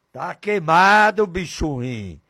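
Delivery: normal talking voice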